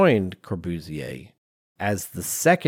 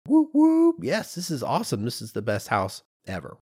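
mock-giddy cheer, a high squeal on whoop; hammed-up excited whoop, then settling down; gushing fan; 5 semitones higher than usual. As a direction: play him as an overjoyed cheerleader for his own project. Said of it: "So, of course, he's like".

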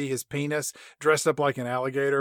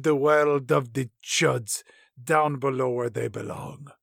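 alligator voice; 2 semitones lower than usual. Retold or imitated. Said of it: "we cut to Ramon".

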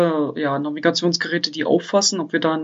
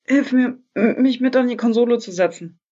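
sore muscles; 5 semitones higher than usual. Acted. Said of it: "Mir tut alles weh".

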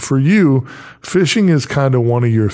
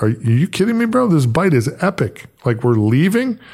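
mock disbelief; 5 semitones higher than usual. Retold disbelief at leaving.

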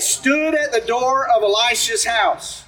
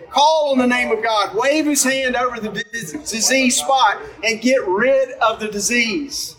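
scripture reading. A narrator's reading. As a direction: read it like a storyteller from the pulpit. Reads scripture story aloud.

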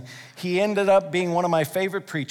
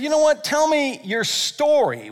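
raised, lively ask to hear a story; eager invitation; 9 semitones higher than usual. Retold or imitated. Preacher voicing an eager friend, higher and lively. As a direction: invite a friend to share, brightly. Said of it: "When's the last time that you said".

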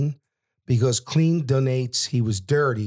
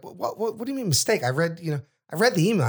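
higher-pitched, stammering protest; retold disbelief; 5 semitones higher, faster than usual. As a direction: replay a father's baffled objection. Father challenges son's reported firing.

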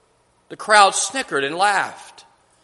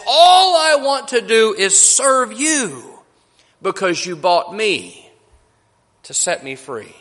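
tearful gratitude; 3 semitones higher than usual. Acted. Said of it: "tears streaming down her face".

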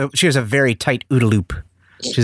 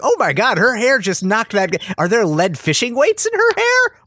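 much higher, incredulous squawk; mock disbelief; 10 semitones higher than usual. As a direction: gawk at the absurd hair hit. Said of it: "it's like".

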